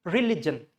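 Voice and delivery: religion as ri-LIJ-un; religion with "lig" together; short I in religion. Shown as a demonstration. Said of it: "So this is religion".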